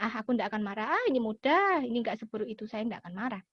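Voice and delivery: low, mostly soft self-reassurance; calming inner voice. Acted. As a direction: talk yourself down gently. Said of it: "setelah itu kita tenangkan batin". (bicara lembut menenangkan batin sendiri)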